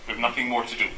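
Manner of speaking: Irish dad. Retold or imitated. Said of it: "particularly in lots of Irish families".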